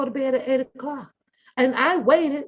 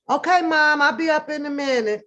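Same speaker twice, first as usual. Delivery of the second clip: higher, louder, sugary obedience; sweet compliant reply; 4 semitones higher, 4 dB louder than usual. Retold or imitated. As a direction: answer mom sweetly, all sugar. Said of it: "just as sweet as I could sound".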